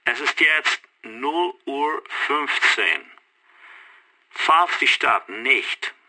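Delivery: officer's ultimatum down a phone line; measured threat through a telephone receiver. Acted. Canadian caller sets a deadline for surrendering the city, telephone voice. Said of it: "höre die Stimme".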